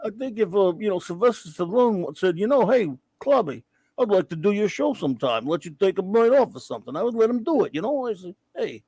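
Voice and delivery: lightly put-on Rocky boxer voice; tough-guy Philly slur, barely done; hint of a punchy boxer; half Rocky half Dice Clay. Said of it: "It's half Rocky, half Andrew Dice Clay".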